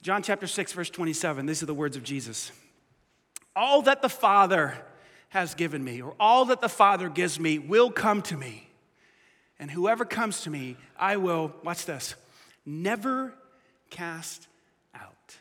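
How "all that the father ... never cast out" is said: slow, dropping to a hush on cast out; solemn scripture. Retold or imitated. Pastor quoting Jesus to the church, slow and solemn. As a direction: let each word of the promise land.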